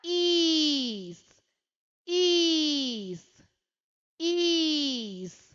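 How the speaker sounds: ഈസ് stretched very long, vowel held; drawn-out is. Shown as a demonstration. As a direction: hold the ഈ of ഈസ് for a long time. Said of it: "എങ്ങനെയാ വായിക്കുക?".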